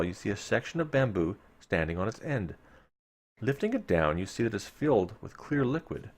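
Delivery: measured gamebook reading to the listeners; story narration. A narrator's reading. Host reading gamebook text to listeners, storyteller narration. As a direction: read the dungeon text like a storyteller. Reads gamebook passage aloud.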